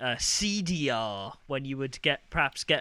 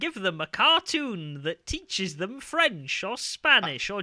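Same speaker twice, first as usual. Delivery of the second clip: slow, higher, upbeat TV ad voice; advert voiceover; 7 semitones higher, 3 dB louder, slower than usual. Retold or imitated. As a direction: sell it like an old kids' advert. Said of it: "I remember those adverts of".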